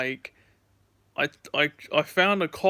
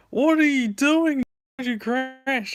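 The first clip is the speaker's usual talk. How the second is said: higher, louder mock outrage; hammed-up angry stranger; imitating an angry player; 10 semitones higher, 4 dB louder than usual. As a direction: play the annoyed gamer yelling. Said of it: "then he's like".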